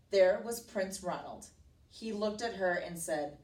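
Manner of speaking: read-aloud storybook telling; emphatic, measured read to a child; story narration. A narrator's reading. Teacher reading a princess story to a child, narrating expressively.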